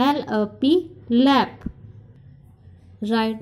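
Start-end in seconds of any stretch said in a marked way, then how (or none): 0.1-1.6 blending letters into word. Shown as a demonstration. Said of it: "Ending sound".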